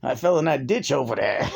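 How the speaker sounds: mock an actor's slip into Sicilian New York speech; a touch of Sicilian street accent, played for laughs; Sicilian-American accent. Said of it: "uh, Sicilian accent".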